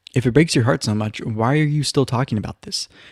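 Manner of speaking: usual speaking voice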